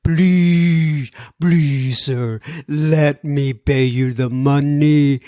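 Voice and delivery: drawn-out pleading please, a touch slowed; begging. Retold or imitated. Caller begging the clerk to take his money, mock pleading. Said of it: "begging the guy".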